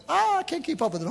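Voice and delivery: high mock protest; overwhelmed complaint. Preacher mimics givers who can't keep up, mock overwhelmed. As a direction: imitate them wailing that it is too much. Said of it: "they're like".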